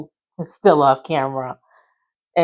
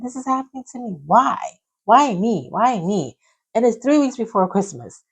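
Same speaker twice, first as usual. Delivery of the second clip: inner raging curse; 3 semitones higher than usual. Retold or imitated. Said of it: "cursing in my head".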